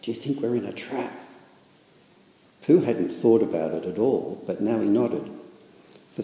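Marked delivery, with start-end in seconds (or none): 0.0-1.2 higher, timid small voice; nervous Piglet. A narrator's reading. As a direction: ask it like a scared little pig. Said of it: "he went on nervously".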